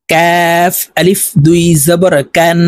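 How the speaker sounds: কাফ and কান with k slightly forward of the tongue root; forward Kaf. Shown as a demonstration. Teacher contrasting two letters, forward k in কাফ and কান. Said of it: "জিব্বার গোড়াতে একটু আগে বাড়াইয়া উচ্চারণ".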